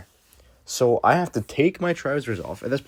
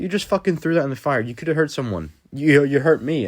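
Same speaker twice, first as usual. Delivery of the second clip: angry; 5 semitones higher, 3 dB louder than usual. Retold or imitated. Confronting Jake who threw it.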